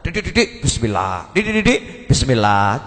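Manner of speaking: singsong mockery; mock her pious habit; irritated husband mimicking his wife. Husband mocks wife's habit.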